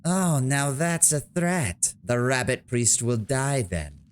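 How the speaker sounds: sarcastic. Acted. Sarcastic reply to the villain's threat.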